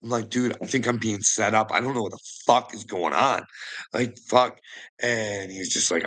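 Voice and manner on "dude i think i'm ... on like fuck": normal talking voice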